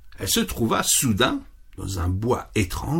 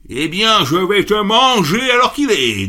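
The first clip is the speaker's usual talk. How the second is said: loud, higher menacing troll; troll threat; 8 semitones higher, 5 dB louder than usual. Acted. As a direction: threaten to gobble him up. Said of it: "dit le treuil".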